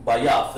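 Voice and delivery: Bayath said clearly as a model; teacher's model word. Shown as a demonstration. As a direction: sound out Bayath for the class. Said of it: "So we say".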